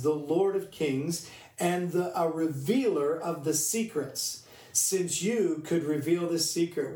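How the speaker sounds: measured, emphatic scripture reading. Acted. Preacher reading Daniel to the church, measured and emphatic. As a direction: read the verse out with deliberate weight.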